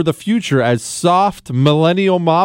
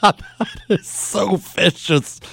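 laughing; slower than usual. Real, not acted. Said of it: "host laughing".

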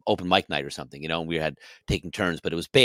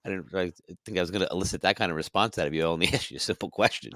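calm, amused; 5 dB quieter, faster than usual. Retold or imitated. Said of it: "very calm and kind of almost laughing".

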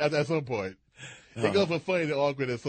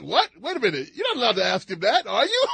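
mock disbelief, climbing higher and louder at the end; imitating surprised guest; 3 semitones higher, 5 dB louder than usual. Retelling the guest's reaction, a mock startled question. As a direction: play the startled guest, half laughing. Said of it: "So it just struck".

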